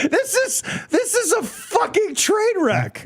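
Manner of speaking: high, slow, laughing yell; laughing shout. Real, not acted. Laughing at audio failing.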